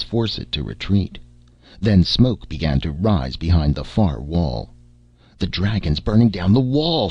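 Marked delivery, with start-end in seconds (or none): 5.4-7.1 shriek. Acted. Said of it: "shrieked Lazar".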